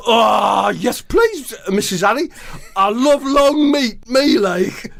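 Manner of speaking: eager high chirp; high Jordan voice. Acted. Footballer accepting hot dog, high and eager. Jordan answers Harry's mum.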